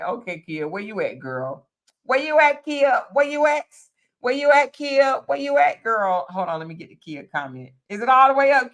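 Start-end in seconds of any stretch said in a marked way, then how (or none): 2.0-6.3 sing-song calling for someone in the chat. Real, not acted. Host calling for Kia's comment, raised calling. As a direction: call out to a viewer, raised and higher.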